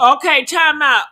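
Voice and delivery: loud time-out call; loud interruption. Real, not acted. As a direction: cut in loudly to halt the video. Breaking in on the played video.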